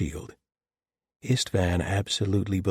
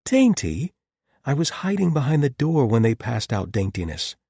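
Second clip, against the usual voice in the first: high, indignant yelp, half laughing; mock offense at the word; amused outrage; 7 semitones higher, 6 dB louder than usual. A narrator's reading. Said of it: "a noise between outrage and amusement".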